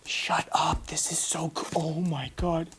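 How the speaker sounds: hushed, breath-only disbelief; awed whisper. Real, not acted. YouTuber marvelling that he owns this now, whispering in awe. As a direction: whisper in stunned delight.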